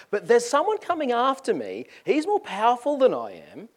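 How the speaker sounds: high, ringing announcement; loud proclamation. Acted. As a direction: proclaim it to the crowd. John proclaiming the one to come.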